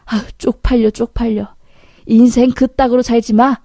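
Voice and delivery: acted disgusted telling-off; angry scolding. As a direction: shame the cheat with contempt. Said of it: "라고 소리 지르자".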